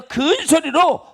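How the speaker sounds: 큰 소리로 drawn out, high in pitch; emphatic stretched stress. Real, not acted. Preacher urging people to cry to the Lord, 큰 소리로 high and stretched.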